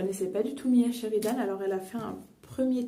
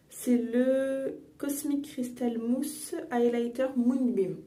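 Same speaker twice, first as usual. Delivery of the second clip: English brand name read slowly with a would-be English accent; mock English accent; 2 semitones higher, slower than usual. Shown as a demonstration. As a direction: pronounce the product name in your best English accent, half-joking. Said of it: "mon accent anglais parfait". (accent anglais appuyé, avec autodérision)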